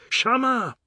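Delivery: high, loud bawl; bawled name. Acted. Husband bawling for his wife, loud bawl. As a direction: bawl her name across the house. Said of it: "he bawled".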